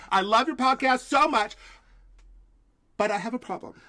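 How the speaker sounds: high, loud gushing TV host; Hoda impression. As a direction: gush like a bubbly morning show host. The speaker voices Hoda Kotb.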